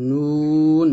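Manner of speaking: নুন drawn out, tongue tip on the palate; long demonstration of নুন with a front n; tongue-tip nun. Shown as a demonstration. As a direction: stretch the vowel of নুন, closing on the n. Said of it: "তালুর সঙ্গে লাগিয়ে নুন উচ্চারণ করব".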